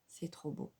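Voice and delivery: breathless whisper of awe; awed whisper. Real, not acted. Vlogger admiring her glittery eyelid to viewers, in an awed whisper. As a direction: whisper it, stunned by how pretty it is.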